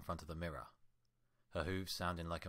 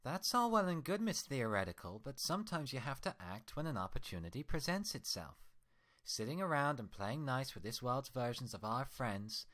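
higher, louder furious scolding; angry Twilight; 6 semitones higher, 5 dB louder than usual. Acted. Twilight scolding her mirror twin, furious and loud. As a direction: tear into her reflection with rage. Twins argue.

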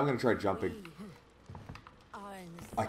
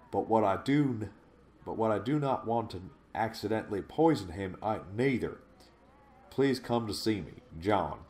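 put-on southern accent. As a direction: read it like a Southern country gal. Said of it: "maybe if I say it in a southern accent".

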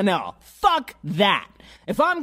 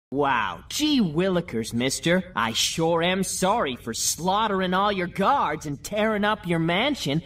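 put-on wholesome 1950s kid; 3 dB quieter than usual. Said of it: "take a joke".

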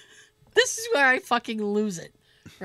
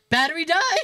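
deadpan question; 5 semitones higher, 5 dB louder than usual. Retold or imitated. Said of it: "I look her in the eye, and I go".

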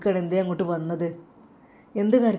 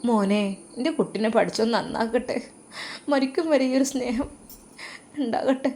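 mother's blessing; 5 semitones higher than usual. Acted. Mother blesses her son.

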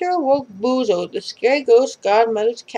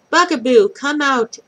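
calling out; 3 semitones higher, 4 dB louder than usual. Acted. Calling under the stairs.

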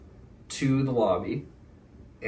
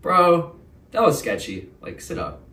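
inner paranoid voice; 6 semitones higher than usual. Retold or imitated. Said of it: "the paranoid part of my brain".

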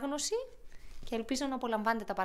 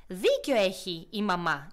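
slow, lower, stressing Δίκιο; measured big-sibling agreement on «Δίκιο»; lightly voiced eldest hedgehog, slow; 3 semitones lower, 5 dB louder, slower than usual. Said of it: "είπε το πιο μεγάλο".

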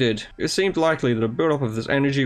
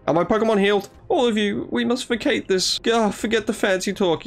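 higher, brusque and impatient; lightly voiced blunt leader; 7 semitones higher than usual. Clan leader urging the group to leave, impatiently. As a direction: cut through the formality. Voicing a character's lines.

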